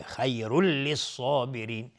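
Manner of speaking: slow recitation, خیر running straight into a doubled lam in للصابرین; merging without ghunna. Shown as a demonstration. Teacher showing the tanween merge, خیر joined smoothly to للصابرین without humming. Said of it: "تنوین بعدش لام ادغام بدون غنه".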